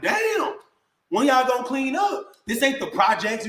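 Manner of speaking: high, sharp exclaimed Damn, then scolding; mild mock yell at a messy house; retold outburst. Retelling how he yelled at the family over the dirty house. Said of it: "I'm like".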